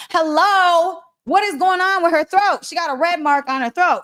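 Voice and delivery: retold loud, high outburst of disbelief; speaking up. Speaker alerting the meeting to her red throat, loud disbelief. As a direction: call it out to the whole room, high and loud. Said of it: "I'm gonna stand up and say something".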